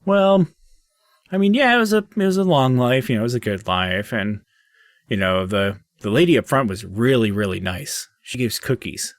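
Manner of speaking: a chatty little gnome remembering his life; gnome spirit. Acted. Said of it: "the little gnomish spirit's like".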